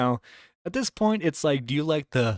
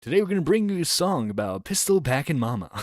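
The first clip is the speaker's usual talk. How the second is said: crackly lonely radio dj; 3 semitones higher than usual. Pretend. Playing a wasteland radio DJ.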